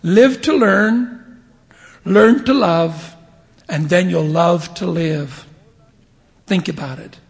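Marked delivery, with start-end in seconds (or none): 0.0-5.5 slow, louder, each phrase weighed; solemn quote. Acted. Preacher quoting Matthew Cowley slowly to the congregation. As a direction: deliver the maxim deliberately. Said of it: "Matthew Cowley said".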